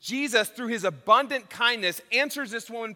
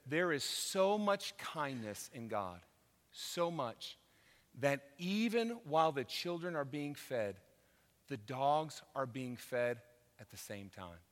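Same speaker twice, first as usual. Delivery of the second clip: humble plea; 6 semitones lower, 10 dB quieter than usual. Retold or imitated. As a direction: gently say it like a woman pleading in faith. Voicing the woman's humble reply.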